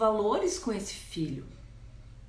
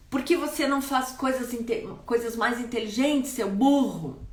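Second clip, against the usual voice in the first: contemptuous insult; 2 semitones higher than usual. Retold or imitated. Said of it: "Chama o filho de burro".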